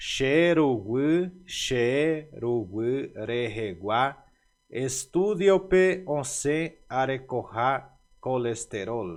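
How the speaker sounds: each word laid out slowly, xerugui drawn out. Repeating a foreign sentence after a fast first pass: slow, word-by-word. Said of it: "Eu vou voltar pronunciando lentamente".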